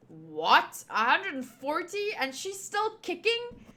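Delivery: disbelief climbing to a high question; astonished. Acted. Astonished at witch's great age.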